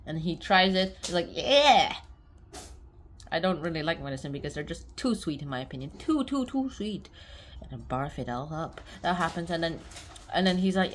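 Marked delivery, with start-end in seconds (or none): 1.3-1.9 excited. Retold or imitated. Excited reaction to sweet. 6.0-7.1 drawn-out disgust. Real, not acted. Exaggerated disgust.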